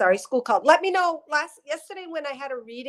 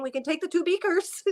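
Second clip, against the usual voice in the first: a hint of a higher teacherly granny; grandmother's voice; 6 semitones higher than usual. Medium relays the grandmother's lesson, lightly higher. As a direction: explain it like a patient science teacher. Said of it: "she talks in this voice".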